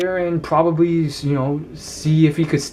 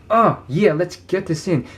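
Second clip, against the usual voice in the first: higher, energetic imitation of a powerful talker; Will Smith; 4 semitones higher than usual. Man showing students Will Smith's personality, loud and energetic. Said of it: "he talks really, really loudly".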